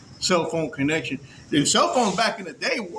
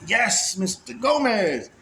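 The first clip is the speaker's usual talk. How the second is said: interviewer at first; 4 semitones higher, slower than usual. Retold or imitated. Interviewer greeting him at first.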